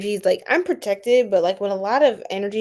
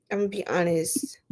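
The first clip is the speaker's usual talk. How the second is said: whisper; 4 semitones lower, 5 dB quieter than usual. Real, not acted. Confiding to viewers in a live.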